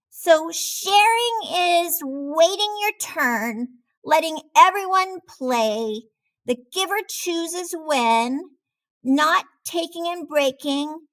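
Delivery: a little shark piecing the lesson together; young shark puzzling. A narrator's reading. Clark talks to himself about what sharing means, high and wondering.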